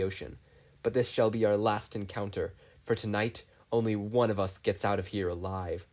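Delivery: put-on face down your old rival; menacing captain. Tense standoff with rival captain.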